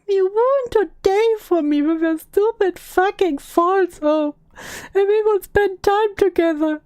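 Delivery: performed aggrieved complaint; acted angry reproach. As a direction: read the rant with mock indignation. Reading out angry insulting texts.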